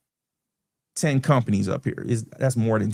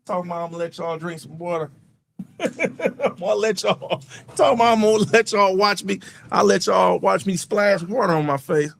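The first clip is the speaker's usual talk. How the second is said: laughing at own mishap; giggling, wet and embarrassed; while splashing face; 6 semitones higher than usual. Real, not acted. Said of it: "I just splashed water all over my face".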